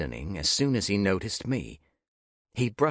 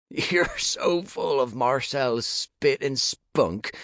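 whispered taunt; 6 semitones higher, 3 dB louder, slower than usual. Acted. Taunting Nick in hushed tone.

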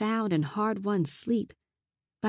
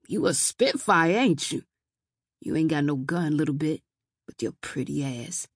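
put-on sleazy drunk man; 3 semitones lower than usual. Drunk man leers at her.

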